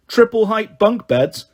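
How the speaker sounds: drawn out in amazement; awed. Acted. Awed at bunk beds.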